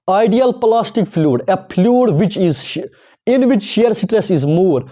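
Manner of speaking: very slow, word by word, for copying into notes; slow dictation. Shown as a demonstration. Teacher dictating a definition to students, very slow and deliberate. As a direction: dictate each word slowly so students can write it down.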